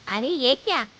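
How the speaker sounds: loud startled exclamation; mother seeing the new "bride", startled and loud; shocked. Acted. Shocked parent sees son's partner.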